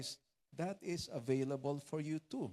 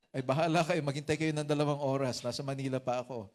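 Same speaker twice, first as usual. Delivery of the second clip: louder, put-upon retort; exasperated brush-off; 6 dB louder than usual. Retold or imitated. Pastor answering callers who want him home now, exasperated. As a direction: fend them off loudly, a bit fed up.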